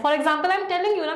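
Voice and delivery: dogmatic. Shown as a demonstration. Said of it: "dogmatic tone बोलते हैं".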